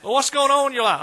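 high, loud friendly question; a friend loudly asking how life is going; curious friend. Acted. Acted friend asking about life.

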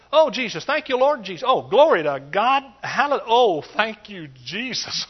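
mock loud praise after hitting his head; hammed-up praising shout. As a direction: shout praise in place of a curse. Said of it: "Now I hit my head".

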